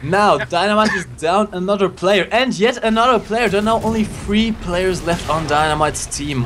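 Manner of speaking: esports caster calling the match; live play-by-play. Acted. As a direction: call the action like a caster.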